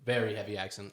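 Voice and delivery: "very" leaned on in a low-key remark; "very" stressed before "heavy accent". Real, not acted. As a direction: put the weight on "very". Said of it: "emphasis on very heavy accent".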